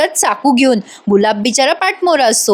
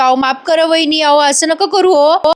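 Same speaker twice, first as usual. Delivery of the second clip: frightened pleading; 5 semitones higher than usual. Acted. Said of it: "आता तो गुलाब घाबरतो ना".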